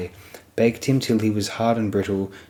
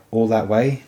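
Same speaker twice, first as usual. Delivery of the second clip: a mild astonished rise on way; lightly voiced disbelief, lifting at the end. Jory, astonished at the distance, asking back.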